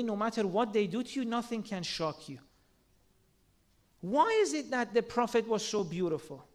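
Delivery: normal talking voice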